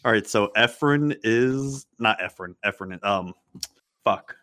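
a little tipsy, fumbling names. Real, not acted. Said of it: "I'm a little tipsy".

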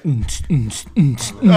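beatbox the bass thump; imitated club beat. Shown as a demonstration. Describing the basement party, beatboxing the music. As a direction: mouth beat mm-ts. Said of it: "It's just like".

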